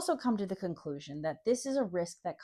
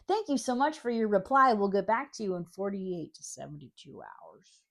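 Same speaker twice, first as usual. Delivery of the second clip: mock customer service voice; 3 dB louder than usual. Mocking repeated company form reply.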